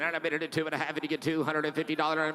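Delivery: fast rhythmic auction chant; auctioneer. Real, not acted. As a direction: rattle off the bids like an auctioneer. Auction bid calling.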